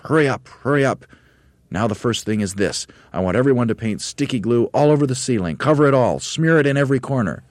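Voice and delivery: high, loud urgent orders; Mugglewump crying out. A narrator's reading. Monkey leader hurrying his painters, crying out. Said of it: "cried Mugglewump".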